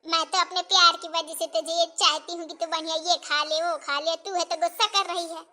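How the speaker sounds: gently hurt mother, low and soft; loving reproach. Acted. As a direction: explain your loving care to a cross daughter. Hurt mother explains her love.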